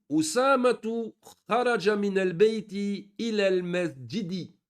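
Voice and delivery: Usamatu with the opening U fully pronounced, said slowly; hamza clearly sounded. Shown as a demonstration. Teacher to students, slowly sounding out the hamza in Usamatu. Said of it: "on l'entend".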